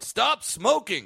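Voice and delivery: slow, high-pitched mock yell; retold yell. Veteran comic yelling out on spotting him, mock yell. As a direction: holler it out in imitation, stretching each word. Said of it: "yelled out".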